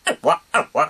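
high voice scratch. Shown as a demonstration. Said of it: "高い声やったら".

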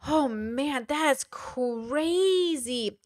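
very slow, drawn-out wonder; marveling, savoring the word; amazed. Real, not acted. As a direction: stretch CRAZY right out. Amazed at the video's success.

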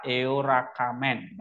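eorakamen run together as a single joined word; read as one word. Shown as a demonstration. Teacher showing students the fast reading, syllables joined. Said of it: "Jadi kalau dibaca cepat".

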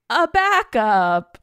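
slow, loud, drawn-out; deadpan. Retold or imitated. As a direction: drag it out in mock dismay. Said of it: "when I opened it, I was like".

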